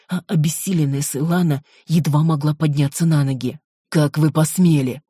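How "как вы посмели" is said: plain reading voice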